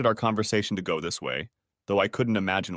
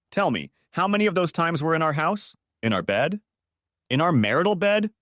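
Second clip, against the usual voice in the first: near scream; 7 semitones higher than usual. Acted. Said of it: "I practically screamed".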